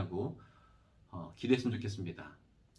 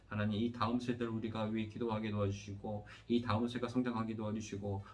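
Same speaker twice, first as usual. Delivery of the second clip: steady, evenly pitched praying voice with little melody; earnest pastoral prayer. Real, not acted. Pastor leading the congregation in prayer after the sermon, earnest prayer. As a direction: pray aloud in long, rolling petitions that settle at each close.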